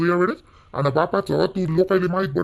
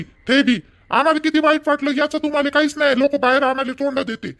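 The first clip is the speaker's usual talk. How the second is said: higher, hurt and accusing; bitter accusation; 4 semitones higher than usual. Acted. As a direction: blame your father, voice raised. Son confronts father about remarriage.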